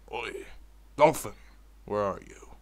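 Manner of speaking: yelled call. Acted. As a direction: shout across the beach for the dolphin. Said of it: "he yelled".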